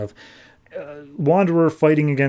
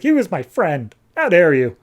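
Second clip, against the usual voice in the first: higher, louder wounded protest; mock outrage; 4 semitones higher, 4 dB louder than usual. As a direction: act indignant over a lost friend. Character protests friend's killing.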